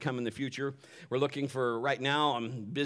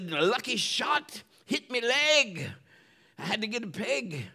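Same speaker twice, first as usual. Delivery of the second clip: pirate voice; 8 semitones higher than usual. Retold or imitated. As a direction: spin the yarn like a salty old pirate. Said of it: "I gotta go my pirate voice now".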